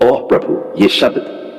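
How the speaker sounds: ये शब्द breathed out unvoiced, almost a whisper; breathless whisper. Real, not acted. Overwhelmed, breathy repeat.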